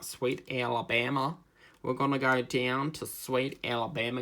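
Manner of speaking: attempted American Southern accent; Forrest Gump. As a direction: try a drawled Alabama accent. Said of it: "Forrest Gump goes".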